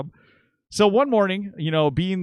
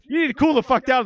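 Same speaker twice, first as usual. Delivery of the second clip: high, loud commanding tone; dad ordering the stranger to calm down; 12 semitones higher, 6 dB louder than usual. Retold or imitated. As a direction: tell him to calm down, loudly. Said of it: "he says".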